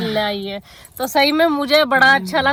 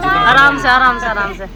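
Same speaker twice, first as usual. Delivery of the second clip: calling out; 6 dB louder than usual. Real, not acted. Calling out to departing guests.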